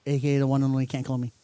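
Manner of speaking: rattled-off nickname intro; rapid-fire. Real, not acted. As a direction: rush through the tagline at speed. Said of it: "Why you say it so fast?".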